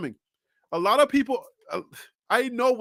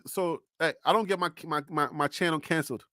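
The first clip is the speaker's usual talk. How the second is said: hushed, secretive aside; whispering; 5 semitones lower, 6 dB quieter than usual. Real, not acted. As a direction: lean in and whisper it. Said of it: "let me whisper to you guys".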